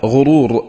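غرور said ghurur, u after the gh; غرور بضم الغين، "غُرور"; ghurur with damma. Shown as a demonstration. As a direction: voice غرور as ghurur, not ghárur. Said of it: "بضم الغين".

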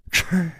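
single sibilant snicker; short scoffing laugh. A narrator's reading. Hidden stranger mocking the pursuer round a corner, short snicker. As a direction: give a brief hiss of a laugh. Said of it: "一声笑".

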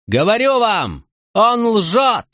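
high slow desperate shout; panicked high outcry; frantic shout. A narrator's reading. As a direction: insist at full voice. Prince shouting denial to crowd.

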